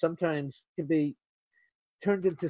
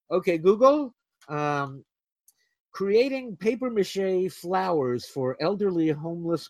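calling out to the phone; 3 semitones higher than usual. Real, not acted. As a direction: call out to Google over the room. Talking to voice assistant.

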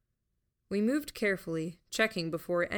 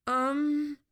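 distressed; 9 semitones higher, 5 dB louder than usual. A narrator's reading. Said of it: "looking more distressed".

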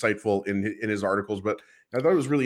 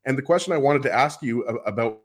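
audio cutting out; choppy dropping connection; corrupted glitchy audio; 3 semitones higher than usual. Real, not acted. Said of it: "his audio is cutting out".

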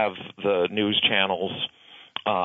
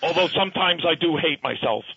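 Bernie impression; 6 semitones higher than usual. Continues Bernie voice.

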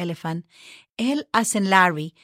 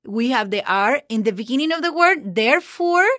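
usual speaking voice

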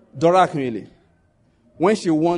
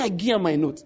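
Warri Pidgin quote. Retold or imitated. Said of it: "He said".

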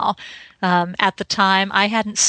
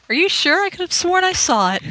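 higher, quick, laughing mock innocence; fast, high teasing dragon voice, half laughing; 10 semitones higher, faster than usual. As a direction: play the sly dragon feigning surprise. Answers as the dragon.

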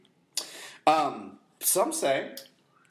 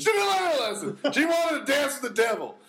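laughing shout; 13 semitones higher, 4 dB louder than usual. Real, not acted. Echoing friend loudly through laughter.

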